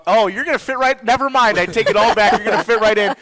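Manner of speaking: loud, high mock enthusiasm; mock excited. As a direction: overplay the sudden change of heart.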